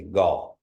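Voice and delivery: ga with the tone rising then falling. Shown as a demonstration. Teacher demonstrates the tone to students, up-and-down ga. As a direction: arch the pitch up and down on ga. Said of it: "goes up and down".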